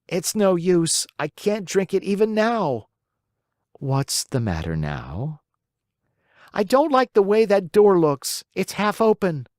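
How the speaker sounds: put-on high, petulant puppet child refusing; a spoiled boy haggling over medicine; stubborn puppet boy. A narrator's reading. Pinocchio voiced in story.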